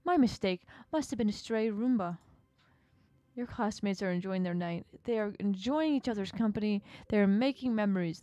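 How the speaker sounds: gleeful creature taunting; mocking octopus. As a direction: rub the loneliness in. Octopus mocks absent friends.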